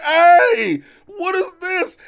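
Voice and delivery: high alarmed yell at the sight; mock alarmed shout. Man spotting a cadaver yells in alarm, high mock shout. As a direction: shout it out, startled and outraged.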